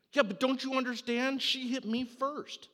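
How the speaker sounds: put-on outraged child yelling his excuse; child protesting. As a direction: bellow it like a kid who feels wronged. Kid protesting loudly.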